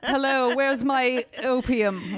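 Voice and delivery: languid, high, slow swooning lady; femme fatale. Pretend. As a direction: drawl it like a drugged Victorian invalid. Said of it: "I could just be like".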